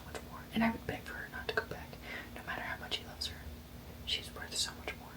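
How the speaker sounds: hushed whisper while reading a book late at night. Real, not acted.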